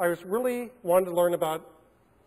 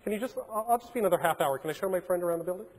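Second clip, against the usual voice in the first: calm; 5 dB quieter than usual. Retold or imitated. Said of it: "So I calmly go".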